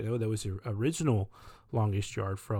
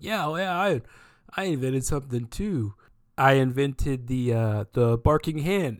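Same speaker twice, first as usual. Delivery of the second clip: higher, louder, slowed goofy boast; Sandler-style retort; 3 semitones higher, 6 dB louder than usual. Retold or imitated. Imitating Sandler bragging at dinner, louder and goofy. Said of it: "Adam Sandler does the most Adam Sandler thing".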